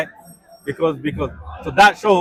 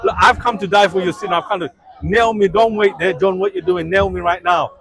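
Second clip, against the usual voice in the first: mock bold Jesus. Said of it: "Like, Like".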